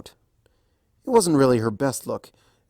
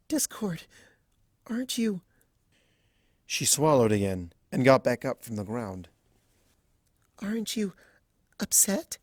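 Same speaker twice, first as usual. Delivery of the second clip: timid worry. A narrator's reading. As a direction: ask nervously, barely daring. Timid high worried question.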